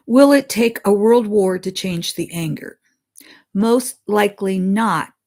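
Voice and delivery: solemn read-aloud of a spirit's words; reading a channeled message. Acted. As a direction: deliver the message deliberately, like scripture.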